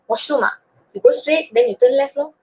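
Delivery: breezy Manglish directions; casual Manglish. Retold or imitated. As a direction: answer the foreigner offhandedly. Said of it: "then you would go like".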